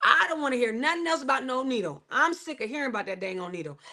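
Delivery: sassy, exasperated and quick; fed-up retort. Retold or imitated. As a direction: toss it off like you're done hearing it. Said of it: "That's exactly how I said it".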